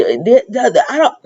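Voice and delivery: words breaking into a laugh; giggling, losing the thread. Real, not acted. Recapping Asher and Jordan, laughing mid-sentence.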